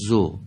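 «زو» with a short, open-ended u; correct short damma. Shown as a demonstration. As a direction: model «زو» briefly without closing it in a hamza. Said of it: "به این شکل باید بگیم". («زو» با ضمهٔ کوتاه، بدون همزه)

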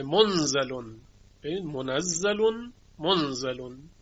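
منزلون as munzalun, nun unvoweled; sukun on nun. Shown as a demonstration. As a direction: say منزلون as munzalun without doubling the z. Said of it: "به اسکان نون خوانده".

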